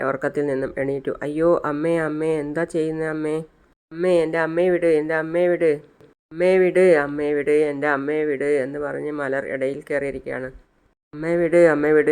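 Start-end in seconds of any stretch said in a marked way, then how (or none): 1.2-8.5 mildly alarmed, slightly raised pleading; retold child's pleading. Malar begs the attacker to let her mother go, mildly panicked pleading. 11.1-12.1 louder, insistent mock cry; retold urgent plea. Malar demands her mother be let go, urgent retold cry. Child cries out for mother's release.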